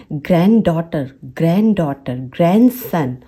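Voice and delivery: ग्रैंडडॉटर as "gran-daughter"; ग्रैंडसन as "gran-sun", no D; silent first D. Shown as a demonstration. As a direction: model ग्रैंडडॉटर with one D only. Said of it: "ग्रैंड वाला जो डी है वो".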